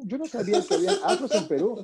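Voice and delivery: quoting her through a laugh; fast, amused mock disbelief; retold line breaking into laughter. Retelling a surprised cashier.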